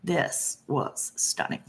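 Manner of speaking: slow, breathy whisper of admiration; whispered, slow and admiring; hushed awe. Real, not acted. Admiring the chart.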